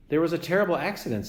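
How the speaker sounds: quick, chirpy robot delivery; bright robot cheer over bad news; cheerful robot voice. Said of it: "why does your voice sound so cheerful".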